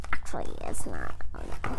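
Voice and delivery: a comic deep "oh no"; deep dread voice. Acted. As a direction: drop to a monster-deep voice. Reader in a low put-on voice.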